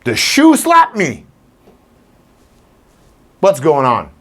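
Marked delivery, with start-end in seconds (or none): 0.0-1.2 high, slow, baffled dog; a dog wondering why the shoe hit it; dog's voice. Retold or imitated. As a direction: voice the puzzled dog. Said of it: "The dog's like".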